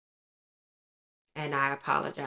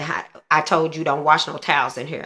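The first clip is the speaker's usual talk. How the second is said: louder, scolding mother's voice; retold scolding; 6 dB louder than usual. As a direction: scold her as if she broke the rule. Mother scolding about washing towels.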